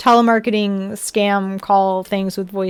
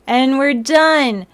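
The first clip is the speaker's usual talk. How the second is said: slow robotic sign-off; much slower than usual. Pretend. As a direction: end it like a machine. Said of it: "Robot voice is over".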